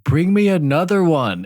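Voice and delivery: put-on high-pitched kid's request with a laugh; imitated kid. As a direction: call it out as the kid, half laughing.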